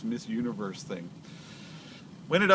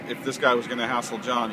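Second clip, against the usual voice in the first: yelling over helicopter. Real, not acted. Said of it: "Sorry about the helicopter".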